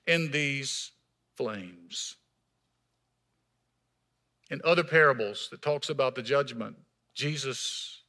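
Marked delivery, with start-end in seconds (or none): 0.1-2.1 loud, high desperate plea; a rich man in torment begging loudly; shouted plea. Acted. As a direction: cry out to Abraham for mercy. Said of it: "The rich man shouted".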